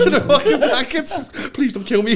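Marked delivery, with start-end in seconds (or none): 1.5-2.1 high begging through laughter; mock terrified plea. Hiding in the blankets from his bird, high laughing plea. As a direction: plead for your life, hammed-up and laughing. Begs for life, retold laughing.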